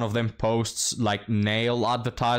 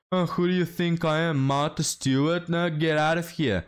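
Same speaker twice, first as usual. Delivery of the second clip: higher, offended put-on voice mocking her; mock indignant woman; 6 semitones higher than usual. Mocking a woman who refuses to cook, in a high indignant voice.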